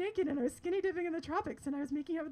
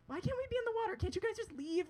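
higher-pitched mock plea; acted pleading protest; 8 semitones higher, faster than usual. Skinny dipper begging the men to leave, pleading. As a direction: protest like a put-upon teenager. Whining back at men ordering them out.

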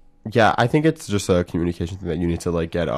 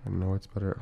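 giggly prank whisper; 11 dB quieter than usual. Real, not acted. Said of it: "I'm, like, whispering into the mic".

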